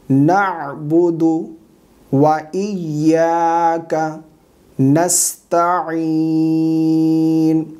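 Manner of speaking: slow, sustained chanting; measured tajweed teaching recitation; Quran recitation. Shown as a demonstration. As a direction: recite with long drawn-out vowels.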